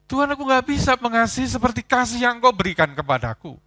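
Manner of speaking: fervent confession. Acted. Peter confessing he cannot love.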